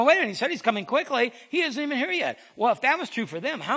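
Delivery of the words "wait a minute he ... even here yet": scoffing. Retold or imitated. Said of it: "they're beginning to scoff".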